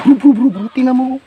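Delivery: high, loud, repeated calling; urgent alert. Real, not acted. Urging his bro to look, high and urgent. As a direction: grab your friend's attention right now.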